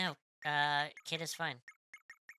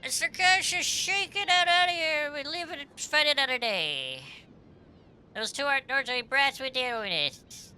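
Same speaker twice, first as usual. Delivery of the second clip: high, loud cartoon henchman voice; fleeing game villain; 11 semitones higher, 5 dB louder than usual. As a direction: squawk it high like a beaten lackey.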